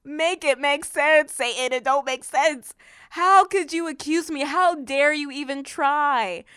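emphatic, indignant challenge to an accuser; slow down and press each challenge home; dead-serious rebuke. Acted. Believer rebuking Satan for accusing her, dead serious. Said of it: "I'm being so serious about that".

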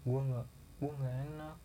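lightly voiced crying friend, apologetic; friend's tearful words. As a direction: mumble it like someone ashamed and crying.

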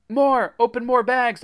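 high, loud urgent command; urgent order. A narrator's reading. Narrator orders Jack to open bags, urgent order. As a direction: order a helper to hurry. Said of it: "I told Jack".

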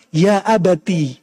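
slow, tender call to father; a son's courteous address, drawn out; gentle, respectful address. Acted. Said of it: "Ini panggilan yang sangat halus". (panggilan halus penuh hormat, pelan)

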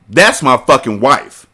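loud, slow furious shout. A narrator's reading. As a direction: shout him down in rage. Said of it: "Zaire shouted".

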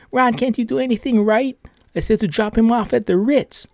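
imitating a fuming boss, pitched high; mock scolding, voice jumping up high. Boss scolding Ron for the wrong drop-off, mock fuming. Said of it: "And he's, like, fuming".

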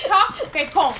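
"Talk Bacon" announced with mock importance; demonstrated name pronunciation. Shown as a demonstration. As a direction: punch out "Talk Bacon" as a showy product name. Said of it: "You have to say it like that".

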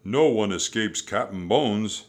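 loud, forceful pirate captain; roaring pirate. A narrator's reading. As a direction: roar it as a boastful threat. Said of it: "he roared".

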